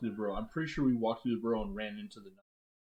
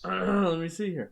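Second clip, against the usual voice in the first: slow, put-on narrator voice; 7 semitones higher, 4 dB louder, slower than usual. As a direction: clear the throat and read like a narrator. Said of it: "Read in your best narrator voice".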